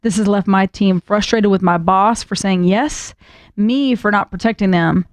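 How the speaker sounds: put-on reading the letter in a thick Southern accent. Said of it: "That's a really thick Southern accent you're doing with this".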